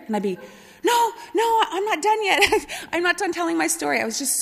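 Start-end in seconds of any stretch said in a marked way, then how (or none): 0.8-4.0 put-on high, laughing, breathless kid voice; laughing hyper kid. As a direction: giggle it out like an overexcited child. Hyper kid answering sisters, laughing.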